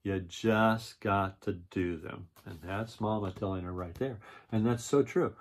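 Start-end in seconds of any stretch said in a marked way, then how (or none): 0.0-2.3 storybook read-aloud voice; reading to children. A narrator's reading. Reads the picture book aloud.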